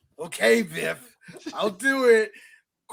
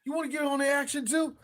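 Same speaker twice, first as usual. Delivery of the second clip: mock Biff taunt; 5 semitones higher than usual. Impersonating Biff taunting McFly.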